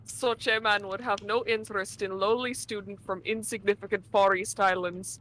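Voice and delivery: put-on thick Russian accent, dropped articles. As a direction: play a gruff Russian steward. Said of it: "Say the line, Novella".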